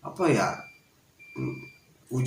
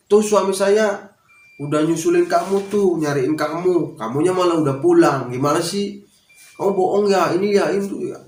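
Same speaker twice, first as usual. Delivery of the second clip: mildly cross, higher-pitched reproach; retold scolding; 5 semitones higher, 3 dB louder than usual. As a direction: imitate a boss's wife telling someone off. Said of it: "saya malah diomelin". (menirukan istri bos yang mengomel)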